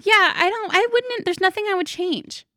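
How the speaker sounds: high voice, still recovering from laughter; laughing to tears. Real, not acted. Host answering after cracking up, laughing to tears. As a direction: squeak it out after a laughing fit. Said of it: "I'm crying".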